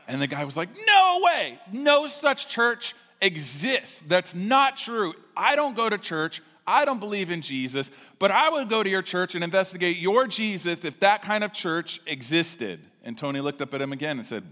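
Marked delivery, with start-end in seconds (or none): 0.9-12.8 much higher, louder, slow disbelief; amazed outburst. Retold or imitated. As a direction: protest loudly, stretching the words. Owner amazed, protesting loudly.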